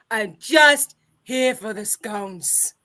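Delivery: slow lingering delivery of the scone line; slow drawled line. Shown as a demonstration. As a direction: stretch each word out slowly, savoring. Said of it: "You're just here for the scones".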